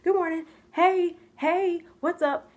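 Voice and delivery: high, chirpy morning greeting; happy, bubbly. Retold or imitated. Happy au pair greeting the family every morning, bubbly. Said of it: "I'm a happy, bubbly person".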